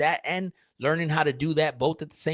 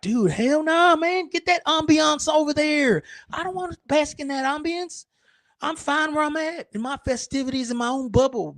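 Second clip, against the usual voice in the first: high mock protest; 10 semitones higher than usual. Acted reply to smelly person.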